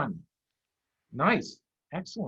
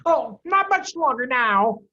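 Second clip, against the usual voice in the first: higher, louder confident farmer; farmer Bean; 9 semitones higher, 8 dB louder, slower than usual. Acted. Bean reassures Boggis, lightly voiced farmer. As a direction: sure he'll break soon. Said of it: "Bean told him".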